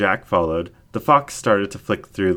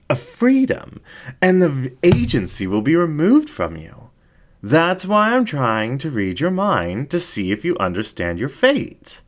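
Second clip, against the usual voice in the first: seductive incubus ringmaster; 6 semitones higher than usual. Acted. Ringmaster explains the pact.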